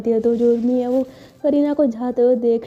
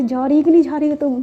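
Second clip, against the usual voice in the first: a bossy friend's raised snap, higher; mock yelling; 4 semitones higher than usual. Friend scolding the shy girl to go, raised mock yell. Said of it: "वो उस पर चिल्लाती है".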